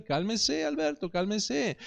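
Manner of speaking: soft, hushed and steady; patient calming. Retold or imitated. Father softly calming his son as the woman listens, hushed. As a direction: murmur it slowly to stay calm. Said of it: "escuchaba a esta mujer".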